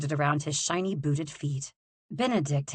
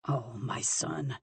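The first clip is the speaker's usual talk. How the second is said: softer, slower sorrowful sigh; father grieving for his son, softer; said sadly; 3 semitones lower, 5 dB quieter, slower than usual. Acted. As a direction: grieve gently over him. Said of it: "Arthur said sadly".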